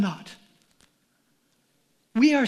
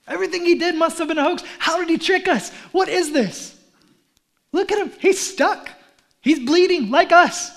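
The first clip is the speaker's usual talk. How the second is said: higher, fast scornful crowd; scornful disbelief; 4 semitones higher, 4 dB louder than usual. Acted. Crowd at the cross, shocked and scornful. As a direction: sneer as the doubting crowd.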